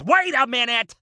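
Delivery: comic alarm; sudden realization. Real, not acted. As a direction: stop short as it dawns on you. Host realizes the trick.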